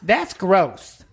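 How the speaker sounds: lightly voiced Southern senator caricature; Lindsey Graham. Senator feigning distaste at a handsome man, mock drawl. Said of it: "he talks like this".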